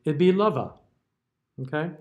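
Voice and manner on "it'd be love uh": "lova" with a short uh sound added after the v; "lova", love said with an extra uh at the end; 1 wrong schwa ending. Shown as a demonstration. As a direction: tack a schwa onto "lova".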